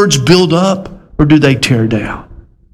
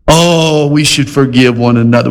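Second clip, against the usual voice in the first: easygoing mock agreement. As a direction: agree lightly, as if nothing were asked of you. Voices the unchallenged, easy reading.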